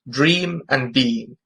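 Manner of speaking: "dream" and "being" drawn out slowly so the long ee sounds match; slow, stretched vowels on "dream" and "being"; adjusted for assonance. Shown as a demonstration. Teacher creating assonance between the two words, slow matched vowels. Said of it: "I've tried to adjust my reading".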